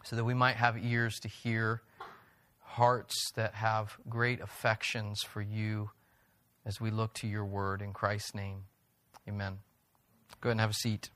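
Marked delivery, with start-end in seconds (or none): 0.0-9.6 soft, low closing prayer; hushed reverent prayer voice. Real, not acted. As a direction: pray quietly to close. Closing prayer before sermon.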